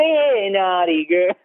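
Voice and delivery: put-on gravelly old tycoon voice. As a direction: growl it out like a creepy old boss. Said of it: "That voice does not lend well to naughty girl".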